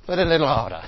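dropped H, Essex style harder; Essex accent. Shown as a demonstration. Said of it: "I'll say it with an H this time".

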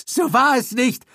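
high, panicked denial; cornered man denying in panic. A narrator's reading. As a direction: deny it in panic. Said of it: "Gildritches Stimme klang panisch".

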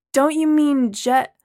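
correcting the attendant, bewildered; Braylon. Acted. Braylon questioning the attendant about the name.

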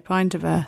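"Pint" with an eye vowel, slightly low. Shown as a demonstration. Co-host realising the accent misled her, "Pint" with an eye sound. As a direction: repeat the corrected word, "Pint" with a clear eye sound. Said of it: "Sorry, it was the accent".

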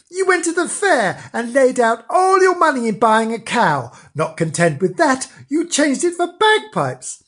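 a jeering bird berating a fool; mocking parrot. A narrator's reading. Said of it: "a parrot on a tree calling out his name".

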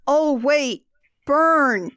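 slow, drawn-out acted realization; dawning realization. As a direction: let the penny drop word by word. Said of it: "He again realizes".

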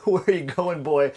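imitated Southern American drawl; American Southern accent. Host teasing his friend's one phrase, Southern American accent. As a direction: mimic a Georgia good old boy accent. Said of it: "in an American accent".

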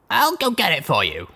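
calm, steady offer; said evenly. A narrator's reading. Blackjack calmly offering to fetch the program. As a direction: keep the voice level and careful. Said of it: "I said evenly".

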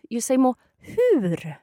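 hur drawn out with a long vowel; stretched hur. Shown as a demonstration. Teacher shows the learner how to say hur, drawn out. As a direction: lean into the hur, slow. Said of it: "when you say the first word".

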